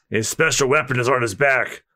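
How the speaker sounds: low, measured character voice; knowing authority. Acted. Veteran explaining the swordsman's weapon, knowing. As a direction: state it low, as established fact. Elder explains to astonished crew.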